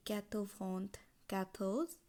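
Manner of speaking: "quatre vingt quatorze" slowly, word by word; French pronunciation demo. Shown as a demonstration. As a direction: set "quatorze" apart with a lift. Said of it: "চুরানব্বই উচ্চারণ হবে".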